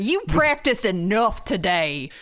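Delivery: put-on Southern accent. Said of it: "with a heavy Southern accent".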